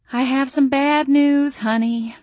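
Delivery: a Southern mama breaking news; mother's voice. A narrator's reading.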